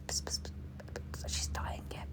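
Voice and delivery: hushed, hissy mock hospital whisper; imitated whisper. Imitating visitors gossiping by the hospital bed, whispering. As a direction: whisper it secretively, mimicking visitors. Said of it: "they whisper".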